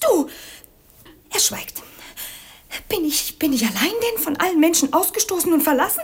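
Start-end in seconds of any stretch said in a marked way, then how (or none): 1.3-1.8 slow, breathless whisper. Acted. Princess baffled by the silent father, whispering. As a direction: drop into a bare whisper.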